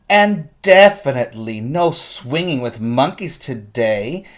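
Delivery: playful grandma, rising at the end; lightly voiced grandma teasing. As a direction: tease her toward a giggle. Grandma's lines in the story.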